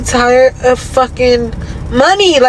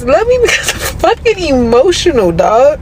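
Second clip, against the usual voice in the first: heated emphasis; 3 semitones higher than usual. Shown as a demonstration. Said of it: "Like this".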